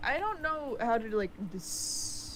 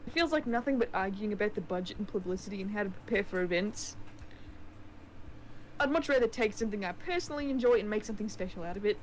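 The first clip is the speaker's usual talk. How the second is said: put-on New Zealand accent; 2 semitones lower than usual. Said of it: "keep using the New Zealand accent".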